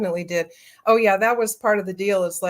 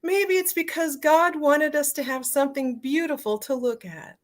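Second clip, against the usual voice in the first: teary; 7 semitones higher than usual. Real, not acted. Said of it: "I'm tearing up just even saying that".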